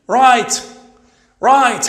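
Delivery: Right as rait, gh not sounded, loud; silent gh. Shown as a demonstration. Teacher drills pupils on silent gh. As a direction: clip it short, no g. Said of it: "G and H".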